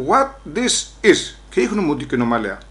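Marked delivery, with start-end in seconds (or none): 0.1-1.3 slow, higher-pitched mock English question; drawn-out English, pitched up; policeman's English. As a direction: imitate an officer drawing out each English word. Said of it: "Λέει μου ο ένας".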